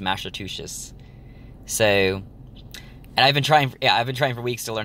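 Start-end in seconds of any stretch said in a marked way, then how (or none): 0.0-0.9 soft, resigned try at "Massachusetts" with sh sounds for the ch; closest pronunciation attempt. Shown as a demonstration. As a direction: say "Massachusetts" softly as "Mash-a-too-shis". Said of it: "That's the closest I've gotten".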